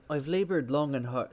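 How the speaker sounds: an Irish lilt on "I've laboured long and hard," slipping in where British was meant; attempted British accent that comes out Irish. Shown as a demonstration. Streamer reading Black Bart's poem, failed British that sounds Irish. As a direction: try for British and slide into Irish. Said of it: "that's Irish".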